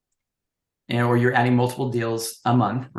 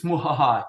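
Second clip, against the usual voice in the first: evil cackle. Retold or imitated. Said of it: "The evil genie says".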